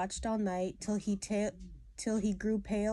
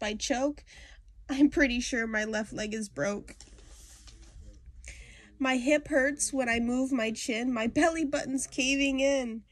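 put-on higher, louder complaining kid voice; whiny sick girl; 4 semitones higher, 4 dB louder than usual. Girl begging to skip school, higher and louder whining. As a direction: pile on every ailment like a whiny child faking sick. Voicing sick Peggy Ann.

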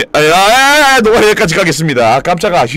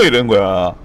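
ordinary delivery

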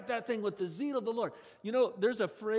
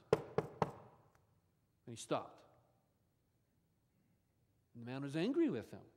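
whispered, very slow; dramatic whisper; 6 semitones lower, 5 dB quieter, slower than usual. A narrator's reading. Preacher telling the church the king stopped, whispered slowly. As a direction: breathe it out slowly for suspense.

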